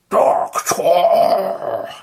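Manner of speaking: high, loud yell of horror; horrified yell. Acted. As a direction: cry out in terror. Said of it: "yelled with horror".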